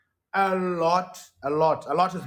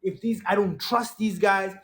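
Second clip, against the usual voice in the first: upset rant; 4 semitones higher than usual. Retold or imitated. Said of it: "And I remember saying".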